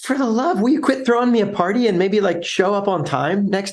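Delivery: fed-up customer begging them to stop; exasperated customer. Retold or imitated.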